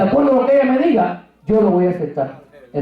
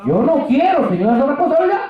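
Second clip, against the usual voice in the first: higher, begging to be let off; pleading refusal; 6 semitones higher than usual. Retold or imitated. Preacher contending with the Lord, pleading. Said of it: "me puse a contender con el Señor".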